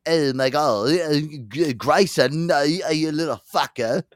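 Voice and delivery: botched Texan drifting into British; badly faked celebrity accent, halting; bad Todd Chrisley. Host demonstrating the impression that went wrong, botched accent. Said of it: "Todd Chrisley impression".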